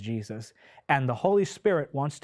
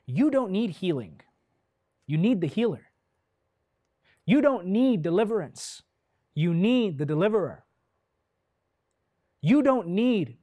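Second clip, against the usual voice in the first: higher-pitched, punchy preacher's refrain; emphatic preaching; 5 semitones higher, 3 dB louder than usual. Real, not acted. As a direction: drive each contrast home, pausing between lines.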